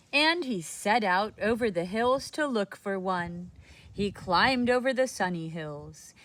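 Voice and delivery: put-on reading to children; gentle storybook telling; story narration. A narrator's reading. Reading a picture book aloud.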